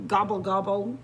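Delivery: a lightly voiced, understated moan of disappointment; mild moan. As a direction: sigh out the gobbles, only a touch let down. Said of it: "moaned Turkey".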